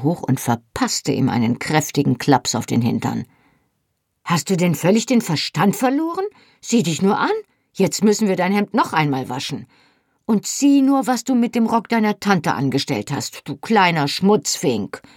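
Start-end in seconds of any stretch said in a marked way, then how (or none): 4.2-15.0 raised, high exasperated scolding; scolding mother. Acted. Mother scolds her muddy little son, exasperated and high. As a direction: give the boy a sharp dressing-down.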